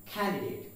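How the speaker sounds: Candidate with an aspirated K; correct pronunciation. Shown as a demonstration. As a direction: say Candidate as "KHAN-di-date". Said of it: "the pronunciation is candidate".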